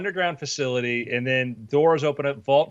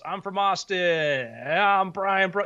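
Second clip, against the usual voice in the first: panicked whiny protest; 6 semitones higher than usual. Retold or imitated. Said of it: "you're like".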